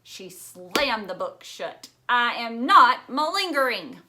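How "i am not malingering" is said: louder, a firm offended protest; indignant denial. Acted. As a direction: throw the word back at him. Phoebe slams the dictionary shut.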